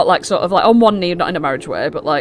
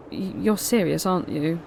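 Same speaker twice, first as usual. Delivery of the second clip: teary; 4 dB quieter than usual. Acted. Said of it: "with a bit of sort of tears".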